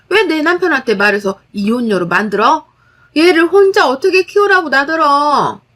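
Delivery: sister-in-law rushing at her, shrieking in a crazed voice. Acted. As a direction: rant like she's lost her mind. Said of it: "광기 어린 목소리로 말하더군요".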